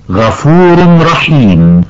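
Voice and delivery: غفور رحيم said slowly with the tanween merged into a doubled r; الإدغام. Shown as a demonstration. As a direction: glide غفور straight into رحيم with no n sound. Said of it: "والصواب أن تنطق". (إدغام التنوين في الراء ببطء)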